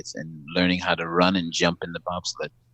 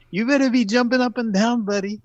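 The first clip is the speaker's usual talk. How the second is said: much higher, scolding voice; pushy producer. Retold or imitated. Producer scolding the too-calm actor, high chiding voice. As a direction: push him to celebrate, high and bossy. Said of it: "She goes".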